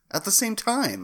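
playful hammed-up shout; mock dramatic shout. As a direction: hype it up like a comic ad.

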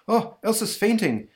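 high-pitched startled cry; alarmed exclamation. Acted. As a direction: gasp it out in sudden concern. Hero alarmed as Elsa faints.

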